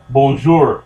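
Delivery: "Bonjour" said the French way, nasal first vowel. Shown as a demonstration. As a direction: pronounce "Bonjour" like a French speaker. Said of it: "That's what that means".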